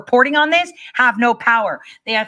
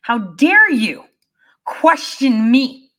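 angry tirade; 2 semitones higher, slower than usual. Retold or imitated. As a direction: drag out each how dare you. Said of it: "this exertion of anger".

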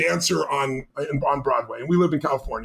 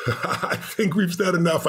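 laughing; slower than usual. Real, not acted. Laughs as interview closes.

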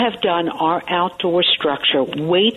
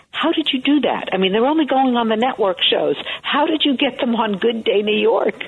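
higher-pitched, mock-incredulous questions; imitated amazement; 4 semitones higher than usual. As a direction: retell their disbelief in a raised pitch. Retelling friends' amazed questions.

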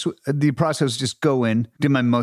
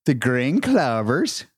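put-on Lucky Charms accent. Actor names his favorite marshmallow in his Lucky Charms Irish accent. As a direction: draw it out in a cereal-advert Irish accent. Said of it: "my entire accent on".

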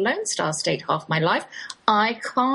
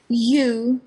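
gushing stranger; much slower than usual. Retold or imitated. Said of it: "She sighed".

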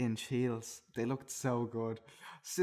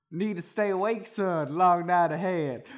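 louder, raised character line; Santa voice; 5 semitones higher, 7 dB louder than usual. Acted. Santa urging his helper to stay awake, loud. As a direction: urge him on, loud and emphatic. Acted Santa offering powder to Jib.

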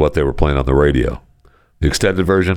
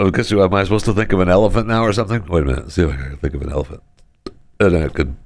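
talking through the hiccups; 2 semitones higher, faster than usual. Real, not acted. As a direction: speak between hiccups. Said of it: "so I have the hiccups".

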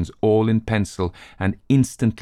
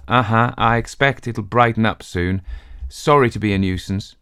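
forced cheer; 3 semitones higher than usual. Acted. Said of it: "He forced a grin".

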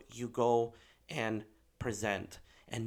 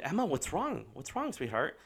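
higher-pitched, mildly concerned parent; retold concern; 4 semitones higher than usual. Dad turning to sobbing daughter in back seat, concerned. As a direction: gently check on an upset child.

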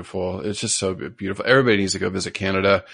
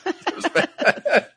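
laughing; much slower than usual. Real, not acted. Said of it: "I can't do a Canadian accent".

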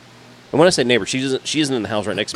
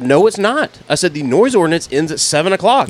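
higher, louder shouting of the rules; retold yelling; 7 semitones higher, 6 dB louder than usual. Yelling the noise code back at the trespassing neighbor, loud. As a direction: bark the noise ordinance back at her. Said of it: "I was screaming code statues at her".

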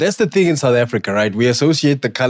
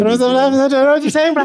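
put-on Afrikaans accent; 13 semitones higher than usual. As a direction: overdo the Afrikaans twang. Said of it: "English in an Afrikaans accent and tone".

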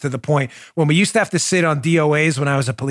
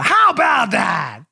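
drawn-out, shouted announcer call; slow, raised-pitch mock sportscaster; baseball show catchphrase; 6 semitones higher, slower than usual. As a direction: belt it out like an old baseball highlight host. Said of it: "This week in baseball".

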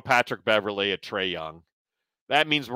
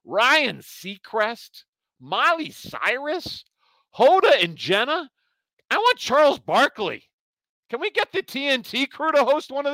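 lightly voiced grumpy old man; old man rant; 5 semitones higher than usual. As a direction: grumble like a cranky old man. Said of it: "Let's go to your old man rant".

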